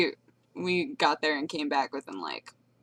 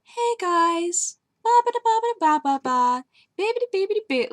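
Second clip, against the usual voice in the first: higher, cutesy babbling imitation of a sweet friend; cute mellow friend; 12 semitones higher, 4 dB louder than usual. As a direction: coo it like a sweet, cute girl. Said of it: "she's very mellow in her voice".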